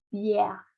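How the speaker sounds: "Bière" with the open E of the grave accent. Shown as a demonstration. Teacher contrasts it with l'école, "Bière" with open E. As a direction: open the E in "Bière", as in bee-EHR. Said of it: "no es tan abierta como el acento grave".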